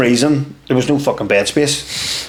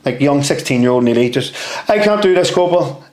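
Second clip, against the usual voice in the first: mock pleading, slightly higher pitched; retold tearful plea; 4 semitones higher than usual. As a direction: imitate a distraught young recruit begging to go home. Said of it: "bawling my eyes out".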